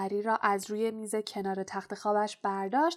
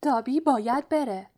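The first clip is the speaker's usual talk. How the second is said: loud, urgent elf; mildly panicked house-elf; terrified; 4 semitones higher, 6 dB louder than usual. A narrator's reading. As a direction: blurt it out in alarm. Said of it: "وحشت زده شده بود".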